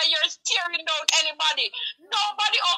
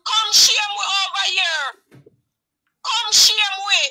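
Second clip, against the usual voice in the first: crying plea; 2 semitones higher, 6 dB louder than usual. Real, not acted. Caller begs Donna Marie to come shame them, crying loudly. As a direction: beg through tears at full volume.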